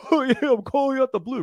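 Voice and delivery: mock an awkward athlete's laugh on the opener; Kawhi Leonard laugh. Trainer mocking a bad opener, awkward laughing caller. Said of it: "you don't wanna sound like Kawhi Leonard".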